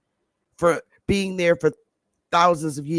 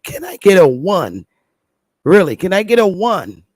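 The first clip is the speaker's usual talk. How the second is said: calling out; 5 dB louder than usual. Real, not acted. Calls out to the audience.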